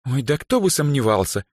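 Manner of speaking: high, sarcastic scoff; wry girlish jab. A narrator's reading. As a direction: dismiss it as predictable. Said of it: "хмыкнула Даяна".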